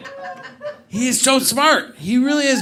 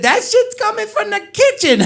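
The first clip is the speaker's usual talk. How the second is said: high, loud excited reveal; punchline shout; 12 semitones higher, 6 dB louder than usual. Retold or imitated. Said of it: "He said".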